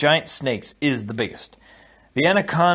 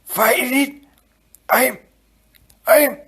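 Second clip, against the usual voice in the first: terrified gasp; 12 semitones higher, 4 dB louder, slower than usual. Acted. Inigo choking, urging.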